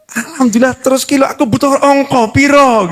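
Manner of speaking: lightly voiced insistent husband; suami memaksa. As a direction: throw the wife's answer back, demanding a figure. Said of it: "Sampai suaminya yang mekso-mekso". (suami agak ngotot menuntut jawaban)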